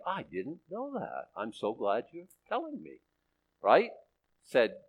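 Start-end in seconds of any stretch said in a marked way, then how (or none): 0.0-3.0 softer, slowed, playacting innocence; mock surprised God. God thanking us for the information, mock surprise. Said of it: "And he's like".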